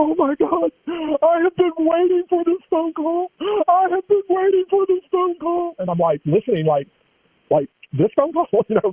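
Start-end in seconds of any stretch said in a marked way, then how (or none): 0.0-5.7 mock, very high, crying and sobbing voice. Retelling a man's reaction on a phone call, imitating a man crying and sobbing. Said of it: "this man started crying and sobbing on the phone".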